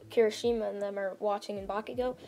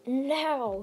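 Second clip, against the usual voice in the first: drawn-out mock yell, a bit higher; retold yell; 4 semitones higher than usual. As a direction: imitate a hero yelling a command, held back. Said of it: "He just yells that out".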